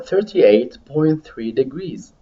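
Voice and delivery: slow, spaced-out "thirty-eight point three degrees"; slow repeat model. Shown as a demonstration. Teacher models a temperature for students to repeat, slowly. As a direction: draw out each part for learners to copy. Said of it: "listen to me and repeat".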